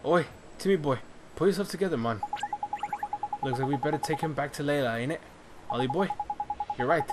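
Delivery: a light cockney lad calling out; cockney character. Acted. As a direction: hail the boy like a cheeky cockney. Drippy voice again.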